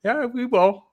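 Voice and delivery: teasing high voice brushing off the worry; cocky high-pitched reply. Retold or imitated. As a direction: jump way up high, playful and sure. His reply to nervous girlfriend.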